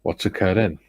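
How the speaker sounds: light Welsh accent catchphrase; a hint of Welsh lilt. Shown as a demonstration. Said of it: "You gotta do it in a Welsh accent".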